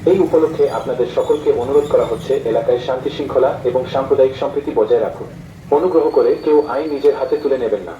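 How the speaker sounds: public address through a loudspeaker; police loudspeaker announcement. Real, not acted. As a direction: announce it over a street loudspeaker. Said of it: "police প্রশাসনের miking".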